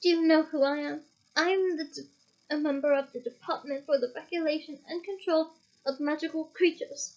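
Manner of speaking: stern official warning; a touch of stern official. Acted. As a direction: speak down to the elf sternly. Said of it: "said Mister Diggory sternly".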